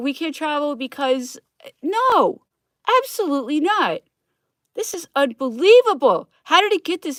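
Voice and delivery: yelling. Speaker on a rant, yelling. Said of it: "now I'm yelling".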